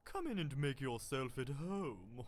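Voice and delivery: put-on sweet old shopkeeper. Voicing Salubra, charm seller.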